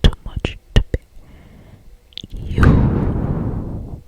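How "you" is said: long, breathed-out whisper; breathy murmur. A narrator's reading. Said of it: "he murmured against my inner tire".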